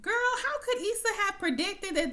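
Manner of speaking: high, laughing disbelief. Real, not acted. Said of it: "And I'm like".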